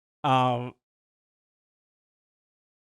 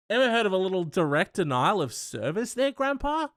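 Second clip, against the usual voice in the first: teasing, rising up to a high squeal; mocking taunt; 5 semitones higher than usual. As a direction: needle him with a sing-song taunt.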